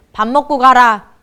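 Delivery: loud, brusque parental command; old-school parent. Acted. Older parent avoiding apology to grown child, brusque. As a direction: cover the apology with a loud order. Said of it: "위에 부모님들은 어때요".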